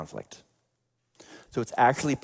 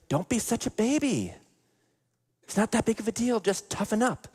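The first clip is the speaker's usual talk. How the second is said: much higher, sharp mocking mother voice; scornful mom; 11 semitones higher than usual. Mother scolding her bullied son, high and dismissive. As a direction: brush him off as a baby, pitched way up.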